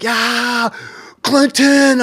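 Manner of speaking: high, loud gloating "Clinton"; gloating nerd. Retold or imitated. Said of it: "and he's like".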